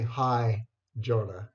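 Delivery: Hi plus the name Jonah, said warmly; greeting with the name. Shown as a demonstration. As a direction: add Jonah after Hi.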